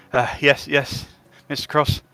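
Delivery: panting after running in; breathless, gasping between words; out of breath. Acted. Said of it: "all out of breath".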